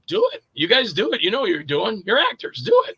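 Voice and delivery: imitating a pushy director; urging director. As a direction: egg the actors on, voice jumping up. Acts out director urging the actors.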